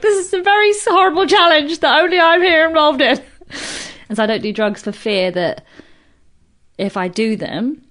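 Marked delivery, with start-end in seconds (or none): 0.0-3.2 high, loud whine; mock wail. Comedian bemoaning a challenge only she is in, mock-tearful. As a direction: wail it like a hammed-up sob.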